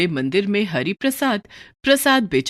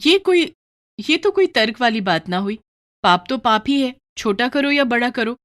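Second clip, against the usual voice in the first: mildly indignant wife, pitched up; Lakshmi, indignant; 4 semitones higher, 3 dB louder than usual. Acted. Wife disputing husband's excuse, lightly indignant. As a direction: argue back with raised, earnest reproach.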